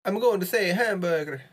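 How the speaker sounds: high, sing-song mock Italian accent. Player protesting the rule to a friend in a mock Italian accent. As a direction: put on a hammy Italian accent, pitched well up. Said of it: "speak with an Italian accent".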